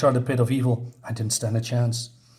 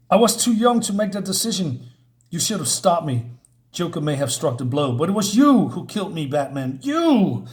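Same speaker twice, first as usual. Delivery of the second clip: accusing Robin; 3 semitones higher than usual. Acted. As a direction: blame Batman for your death. Robin's ghost blames Batman.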